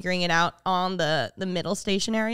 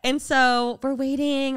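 ordinary delivery

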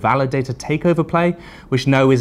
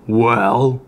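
lightly voiced troll; 3 dB louder than usual. A narrator's reading. Troll pausing before threatening the crypto, lightly growled. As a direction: ease back into the troll. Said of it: "said the troll".

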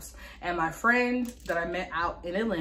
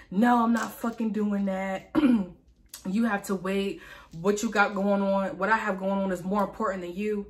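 retold irate refusal. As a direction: imitate an irate mother refusing, mildly heated. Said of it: "She was being really irate".

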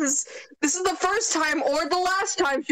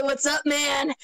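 chill brassy voice. Shown as a demonstration. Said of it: "her voice is kinda more brass".

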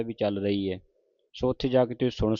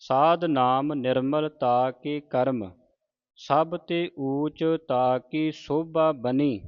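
slow, measured sacred reading; deliberate Gurbani recitation for learners; scripture recitation; 2 semitones higher, much slower than usual. Acted. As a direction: recite phrase by phrase, stretching the vowels.

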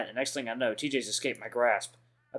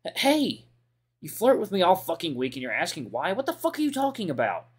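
angry yell; 7 semitones higher, 3 dB louder than usual. Acted. Chase yells at TJ who flirted all week, angry and high. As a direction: Chase yells higher at TJ, furious.

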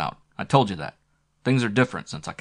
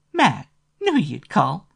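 much higher, slow, loud sultry woman's voice; loud and eager; 9 semitones higher, 8 dB louder, slower than usual. A narrator's reading. Flo thrilled Matt finally called, loud drawn-out voice. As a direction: gush it out to him over the phone. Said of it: "She said it so loudly".

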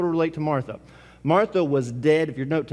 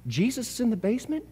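put-on surprised boy; 6 semitones higher, 4 dB quieter than usual.

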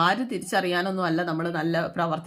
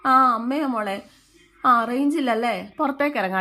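louder, higher voice into a phone; pretend phone call; 4 semitones higher, 5 dB louder than usual. Maid faking a call to her daughter, pretend phone voice. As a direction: fake talking over a bad line. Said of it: "phone വിളിച്ച്, "hello".

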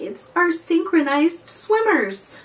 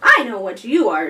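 put-on louder, quick know-it-all boy; a boy sure he's right; 8 dB louder, faster than usual. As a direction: Benji tells the creature what it is. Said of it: "Benji said".

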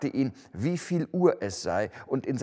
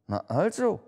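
merry nephew; 6 semitones higher than usual. A narrator's reading. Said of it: "erwiderte der Neffe lustig".

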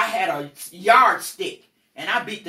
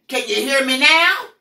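louder, rising challenge to the room; mock-exasperated demand; 3 semitones higher, 5 dB louder than usual. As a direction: call it out, pushing up at the end. Retold outburst after screaming fit.

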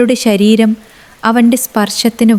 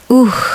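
a short, higher moan of pleasure; a quick moan, pleasure and not pain; pleasured moan; 4 semitones higher, much slower than usual. A narrator's reading. She moans in pleasure with her lover, a short moan. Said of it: "അവൾ വീണ്ടും ശബ്ദമുണ്ടാക്കി".

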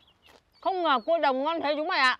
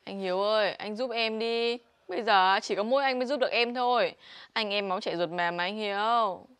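nài nỉ; 2 semitones lower than usual. Acted. Em nài nỉ anh giúp.

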